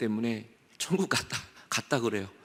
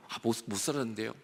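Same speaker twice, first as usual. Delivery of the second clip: ashamed reply; 4 semitones lower, 7 dB quieter, faster than usual. Acted. Sinner's meek reply.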